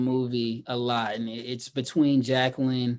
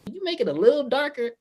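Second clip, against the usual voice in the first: mock smooth request; 10 semitones higher, faster than usual. Marcus asks again.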